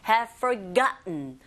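"Have" weak and reduced, "forgotten" stressed. Shown as a demonstration. Teacher shows weakened "Have" before "forgotten", unstressed. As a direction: say "Have" lightly, land on GOT in "forgotten". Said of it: "have도 약하게 발음하시면".

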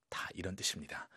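breathy whispered aside. Real, not acted. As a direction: drop to a whisper. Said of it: "unvoiced whisper".

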